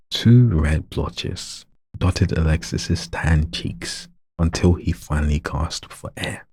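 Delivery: slow, careful, word by word; read slowly. Shown as a demonstration. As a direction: spell out each word so the sentence lands. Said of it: "let me read it slowly".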